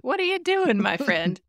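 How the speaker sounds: high, mock-innocent Delenn. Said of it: "Drawl is just like".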